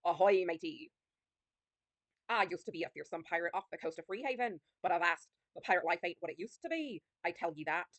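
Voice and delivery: a hint of salty pirate; lightly voiced old pirate. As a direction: greet them as a wistful old pirate. Reads the pirate character's lines.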